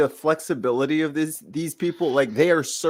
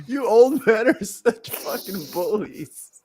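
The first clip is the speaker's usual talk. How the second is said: whiny cloud; 6 semitones higher, slower than usual. Pretend. Cloud voice scolding.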